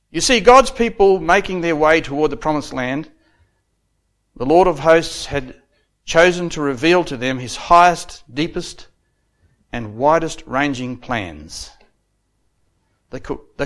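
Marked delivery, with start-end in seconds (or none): 0.1-11.7 raised, measured pulpit delivery; preacher declaiming with weighty pauses; declamatory preaching. Real, not acted. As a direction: proclaim it phrase by phrase. Preaches from prepared oratory.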